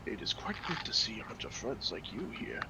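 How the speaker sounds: put-on soft, fast posh British accent; a lightly voiced posh British gentleman. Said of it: "He's got a posh British accent".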